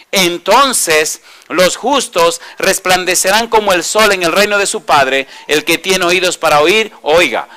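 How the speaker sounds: emphatic, measured Bible reading; scripture reading. Acted. Preacher reads Jesus' explanation of the parable to the congregation, emphatic scripture reading. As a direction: read it out firmly to the congregation, drawing out key phrases.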